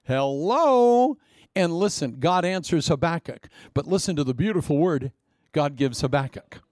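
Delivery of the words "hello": high, louder mock call; calling out to God. Someone asking God why, calling up high. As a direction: hail heaven like a lost caller. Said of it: "you go".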